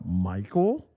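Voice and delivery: low, soft questioning call; unsure recognition. Retold or imitated. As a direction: imitate someone tentatively checking who it is. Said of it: "it kind of like".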